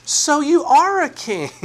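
high, drawn-out mocking disbelief; sarcastic. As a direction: sneer it like you don't buy a word. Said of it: "he's saying that sarcastically".

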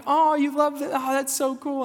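dad hyping up his daughter's new hobby; mock enthusiasm. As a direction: gush like an encouraging dad. Dad feigns delight to daughter.

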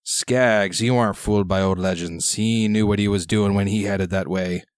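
lightly voiced gruff old sailor; gruff old fisherman. GM plays old pirate sailor.

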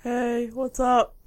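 guy voice. Pretend. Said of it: "your best Willow pretending to be a guy voice".

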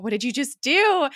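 mock an incredulous confrontation; alarmed demand. Skye to Fitz after he covers for her, alarmed demand.

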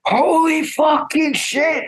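high, slow laughing exclamation; laughing disbelief. Retold or imitated. Bouncer recognizing John through the disguise, laughing. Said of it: "starts cracking the fuck up".

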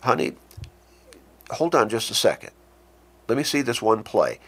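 easy, respectful husband's tone; mildly affectionate request for patience; loving, respectful. Shown as a demonstration. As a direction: gently ask for a moment. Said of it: "that's loving tone there, respectful tone".

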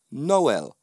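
Noel in two clear syllables, no-EL; Jamaican pronunciation. Shown as a demonstration. Speaker repeating his name to teach it, Noel in two syllables. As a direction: say "Noel" as no-EL, falling at the end. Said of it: "I'll say it again".

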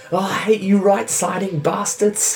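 high, sneering goblin. Acted. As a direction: spit it out like a petty goblin. Player voices arguing goblin.

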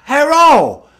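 high, loud exaggerated Asian accent impression; over-the-top mock Asian mother calling you to lunch. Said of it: "she doesn't go".

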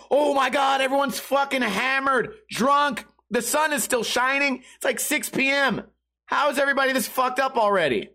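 high-pitched incredulous complaint; worked-up, stressed-out rant; exasperated. Retold or imitated. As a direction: retell it as overwhelmed disbelief. Acts out stressed reaction to drunks.

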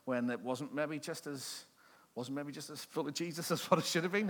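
a hint of a guilty churchgoer; sheepish congregant. Congregation confessing to the pastor, lightly voiced sheepish admission. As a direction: admit it reluctantly, half-hearted. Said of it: "The rest of us are probably going".

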